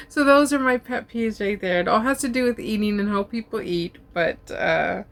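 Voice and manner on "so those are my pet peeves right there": laughing through the words. Real, not acted. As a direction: giggle while you say it. Laughing at her own rant.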